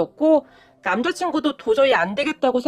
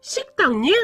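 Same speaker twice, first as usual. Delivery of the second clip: furious. Retold or imitated. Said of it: "분노하더니".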